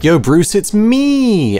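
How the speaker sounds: character voice. Acted. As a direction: call out to Bruce in a squeaky voice. Voicing a character greeting Batman.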